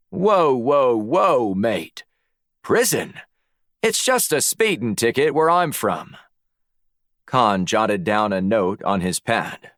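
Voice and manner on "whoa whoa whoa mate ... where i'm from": alarmed Aussie protest, pitched up; Australian accent. A narrator's reading. Black hears of a prison sentence, protests in Australian accent. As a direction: object as a startled Australian. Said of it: "summoned his best Australian accent".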